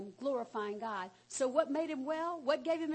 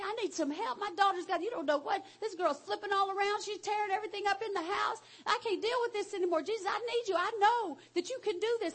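pleading mother; 5 semitones higher than usual. Retold or imitated. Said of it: "She's like".

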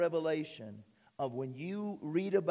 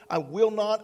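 "I will not" punched out louder; emphatic loud; 6 dB louder than usual. Shown as a demonstration. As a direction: hit "not" hard.

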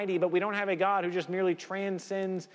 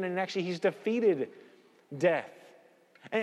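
normal talking voice

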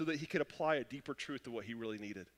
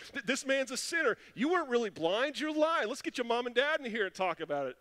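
high, pushed-up voice of an accuser; accusing Pharisees; 7 semitones higher, 4 dB louder than usual. Acted. Preacher voicing the Pharisees accusing the blind man, in a high, scornful voice. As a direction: jab each charge at the healed man.

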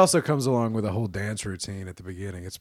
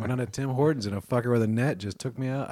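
put-on Canadian accent; 4 dB quieter than usual. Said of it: "I can't even do a good it".

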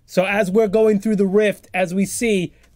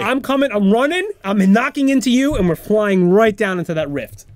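high, louder rush of mock action; excited action play-by-play; 5 semitones higher, 4 dB louder than usual. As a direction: act out the charge with rising urgency. Acting out a running tackle.

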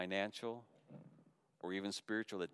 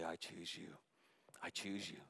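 much softer, gentle repeated words; soft voice of God; 3 semitones lower, 10 dB quieter than usual. Acted. Pastor voicing the Lord to congregation, soft and close. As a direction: hush it like God speaking close. Lord's voice spoken softly.

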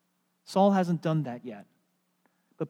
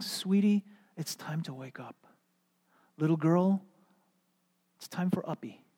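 tender wake-up. Retold or imitated. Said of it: "a pet name for a little girl".

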